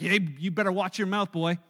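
a hint of a cool, warning dad; put-on tough dad. Dad warning his mouthy kid, lightly hammed-up stern voice. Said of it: "My dad didn't quite sound like that".

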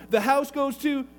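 slow, deliberate will reading; reading a will aloud. Acted. Brother-in-law reads the will to the family, slow and deliberate. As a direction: read out the bequest slowly, line by line.

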